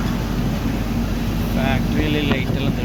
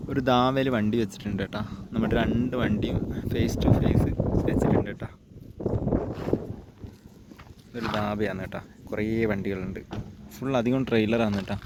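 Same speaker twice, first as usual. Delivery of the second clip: hushed voice; 3 semitones lower, 8 dB quieter than usual. Real, not acted. Quiet night stop at dhaba.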